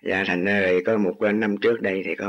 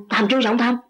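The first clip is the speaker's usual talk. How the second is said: mimicking the master; 14 semitones higher than usual. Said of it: "Ông Tám nói".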